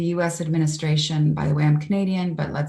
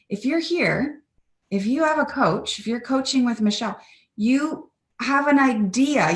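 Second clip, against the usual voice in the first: higher, urging everyone on; raised, fervent appeal; 5 semitones higher than usual. Real, not acted. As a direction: lift the voice to rally the listeners. Rallying call to listeners.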